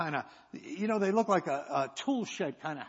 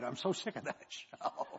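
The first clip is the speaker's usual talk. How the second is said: laughing complaint; 3 semitones lower, 9 dB quieter than usual. Retold or imitated.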